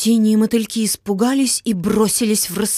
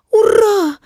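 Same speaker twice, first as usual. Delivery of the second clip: high, drawn-out joyful yell; excited shout; 11 semitones higher, 5 dB louder, much slower than usual. Acted. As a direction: cry out with a sudden idea. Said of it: "закричал Вася".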